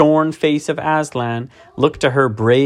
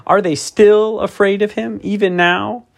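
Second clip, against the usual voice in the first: put-on high, upset young voice; tearful girl; 11 semitones higher than usual. A narrator's reading. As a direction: ask through tears. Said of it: "sobbed Susan".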